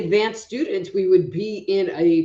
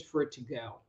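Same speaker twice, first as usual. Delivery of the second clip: whispered; 6 semitones lower, 13 dB quieter, faster than usual. Real, not acted. Telling of trapped energy.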